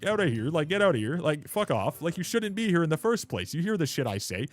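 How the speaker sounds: retold tirade. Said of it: "I was like".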